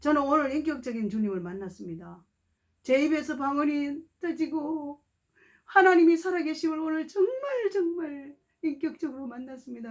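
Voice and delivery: put-on young man weeping over meeting God; tearful testimony. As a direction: break into tears while testifying. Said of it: "울면서".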